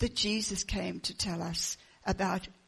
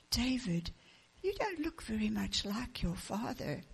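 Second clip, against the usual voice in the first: soft hushed aside; very softly; 6 dB quieter than usual. Acted. Julie speaking softly to David so his father won't hear. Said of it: "Julie said very softly".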